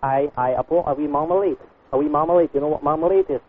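put-on Scottish customer with a complaint; Scottish lilt drifting into Australian; Scottish accent. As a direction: do a muddled Scottish accent on a prank call. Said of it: "talking Australian with the Scottish".

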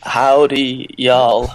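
a lightly done American drawl on "Howdy, y'all"; British guy hamming up a cowboy "Howdy, y'all"; mock American accent. Shown as a demonstration. British guest asked to fake an American accent, mock drawl. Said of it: "Be, be like, "Howdy, y'all." That's an American accent".

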